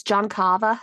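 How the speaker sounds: Boston Carver, dropped r as Carvah; Boston accent. Shown as a demonstration. Correcting the host's Carver in a Boston accent. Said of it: "you mispronounced it".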